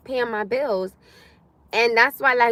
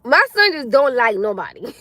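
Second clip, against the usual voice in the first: words pushed out through real laughter; laughing while talking; 5 dB louder than usual. Real, not acted. Telling viewers about her son, laughing. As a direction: laugh as you say it.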